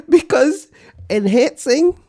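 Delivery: high, loud, slow hammed-up rage over a word; mock fury. Host fakes fury at the word enhancing, hammed-up and slow. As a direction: play it as fake outrage, half laughing. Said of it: "and I'm fucking furious now".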